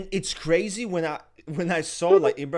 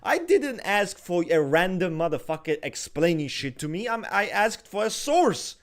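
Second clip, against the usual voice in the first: loud, heated comeback; angry retort; 3 semitones higher, 4 dB louder than usual. Retold or imitated. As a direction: tell him off loudly. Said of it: "I'm like".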